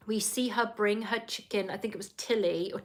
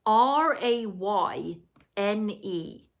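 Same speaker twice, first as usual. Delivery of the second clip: spelling it out; much slower than usual. Shown as a demonstration. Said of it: "it's spelled".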